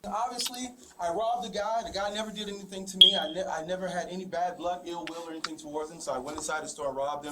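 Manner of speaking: deadpan mock confession; sarcastic. Real, not acted. Suspect mockingly confesses to detectives, sarcastic. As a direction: recount it as if admitting it, not meaning it. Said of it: "this is me being sarcastic".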